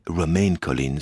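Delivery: "Romain Collins" said the English way, sounding the final n of Romain; English-style pronunciation. Shown as a demonstration. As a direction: pronounce "Romain Collins" as an English name, not a French one. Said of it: "si on le dit à l'anglaise".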